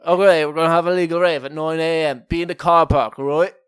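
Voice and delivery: hammy, clumsy English accent impression; bad English accent. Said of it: "That was my best attempt at an English accent".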